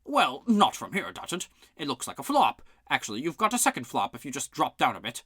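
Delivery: high, loud shouting guards; angry quarrel. Acted. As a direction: fight over every move. Guards quarrelling over the game.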